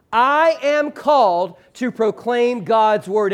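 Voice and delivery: slow, every word given its own weight; a deliberate congregational read-aloud pace; slow unison recitation. Shown as a demonstration. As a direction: lead the room through it word by word. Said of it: "Can you do that again for me?".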